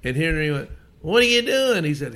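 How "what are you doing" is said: retold startled yell. Startled batter yelling at pitcher.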